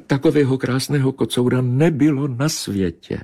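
high, yearning she-cat; lamenting. Acted. She-cat to Bobeš, lamenting. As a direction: mourn him with longing. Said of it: "zamňoukala žalostně kočka".

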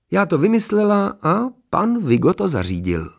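high-pitched lady's character voice; Mrs. Hermanová's voice. A narrator's reading. Mrs. Hermanová explaining the wedding gift, in a high voice. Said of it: "odmítla paní Hermanová skromně jejich díky".

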